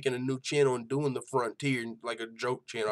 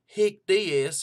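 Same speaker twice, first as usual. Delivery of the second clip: higher, hammed-up hillbilly host voice; hillbilly show host; 3 semitones higher than usual. Host opening his joke hillbilly MMA show, hammed-up hillbilly voice. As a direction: play a corny country MMA show host. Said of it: "I'll just use that voice the whole time".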